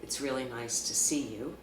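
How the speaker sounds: mean every word of the greeting; sincere. Shown as a demonstration. Therapist showing kids a sincere greeting. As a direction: say it sincerely and kindly. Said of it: "sincere tone of voice and with appropriate body language".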